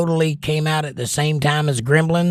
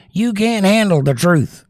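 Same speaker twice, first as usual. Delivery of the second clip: higher, louder, slow and intense delivery; courtroom movie quote; 7 semitones higher, 4 dB louder than usual. Retold or imitated. Quoting the movie to chat, a slow, loud, higher intense delivery. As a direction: hammer out the famous line slowly like a cornered colonel.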